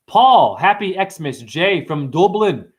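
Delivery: lightly put-on Scottish-Irish accent, drawn out; slow, playful mock Scottish-Irish greeting. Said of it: "I go to Scotland accent".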